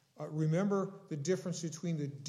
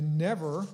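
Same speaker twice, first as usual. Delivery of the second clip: "never" punched louder; stress on never; 5 dB louder than usual. Shown as a demonstration. Preacher explaining the verse, "never" punched loud. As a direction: hit "never" hard, as the emphasized word. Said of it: "is emphasized".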